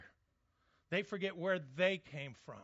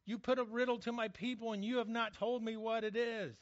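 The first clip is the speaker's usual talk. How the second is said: mock weeping wife; 6 semitones higher than usual. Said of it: "she's crying over him".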